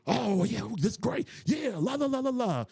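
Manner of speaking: high, gleeful approval breaking into a sung la la; delighted mock reaction. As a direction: gush over it, then hum along. Mimicking the pleased reaction.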